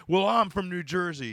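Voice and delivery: lightly mocking imitation of a dopey guy; a hint of dopey New Jersey dude; mock his dopey declaration. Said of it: "there's that dopey".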